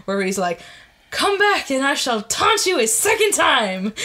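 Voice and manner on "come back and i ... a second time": lightly voiced French taunt; a hint of the mocking Frenchman; French taunter. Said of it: "the French guy from the Monty Python".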